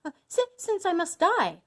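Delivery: high, stammering condemned wife; frightened pleading. A narrator's reading. Wife pleads for her life.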